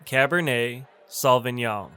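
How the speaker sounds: Cabernet Sauvignon, cab-er-NAY... SAW-vin-yawn; model pronunciation. Shown as a demonstration. Teacher models a wine name, careful pronunciation. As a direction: say Cabernet Sauvignon word by word, silent t. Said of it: "It's pronounced".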